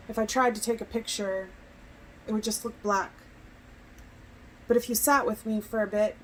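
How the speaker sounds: measured recital with lingering pauses; poetry reading. Acted. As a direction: recite phrase by phrase, letting each image land. Reads second poem aloud.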